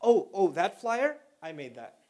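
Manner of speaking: slow, drawn-out show-off; mock boasting. Mimicking someone bragging about a flyer, slow and smug. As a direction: dangle it before claiming credit. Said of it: "You don't normally talk like that".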